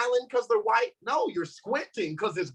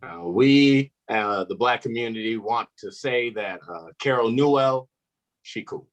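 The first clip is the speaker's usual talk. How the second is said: a lightly lowered, formal community-spokesman voice; a hint of a solemn public announcement; mock spokesman; 6 semitones lower, 5 dB louder than usual. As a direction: deliver it like an official press statement, half joking. Mock official community spokesman statement.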